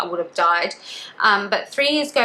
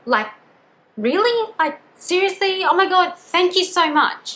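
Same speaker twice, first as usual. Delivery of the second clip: high-pitched, disbelieving delight; happy and excited; 8 semitones higher, slower than usual. Retold or imitated. Captive told she may visit her family, happy and excited. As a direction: imitate an overjoyed, excited thank-you. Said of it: "super happy, happy and excited".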